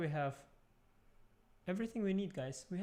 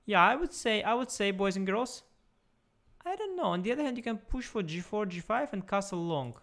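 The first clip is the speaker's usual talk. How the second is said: excited; 5 semitones higher, 5 dB louder than usual. Real, not acted. Excited commentary on the position.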